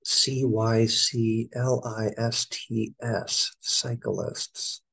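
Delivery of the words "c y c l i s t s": "A L T E R N A T I V E" spelled out one letter at a time. Shown as a demonstration. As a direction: read "A L T E R N A T I V E" as separate letters.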